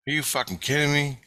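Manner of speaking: high, amazed retold reply; incredulous. Dreamer telling the guide it was crazy, incredulous. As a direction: react as if blown away, pitched high.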